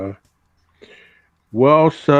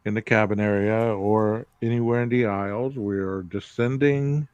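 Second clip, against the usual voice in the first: pilot announcement. Pretend. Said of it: "pilot voice".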